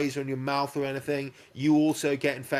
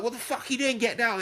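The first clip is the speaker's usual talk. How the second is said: mock urgent yell; 7 semitones higher than usual. Retold warning shout in story.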